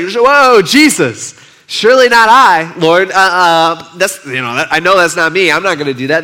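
shocked disciples crying out it's not them; protesting disciples. Retold or imitated. Disciples protesting their innocence.

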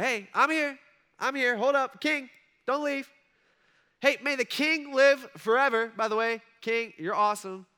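high, loud call from inside the den; yelling up. Retold or imitated. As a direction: shout so the king won't leave. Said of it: "and then Daniel yells out".

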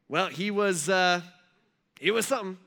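halting, evasive mourner with stretched pauses; awkward hesitation. Retold or imitated. Mourners with nothing good to say, awkward and halting. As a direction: grope for something nice to say. Struggling to praise the dead.

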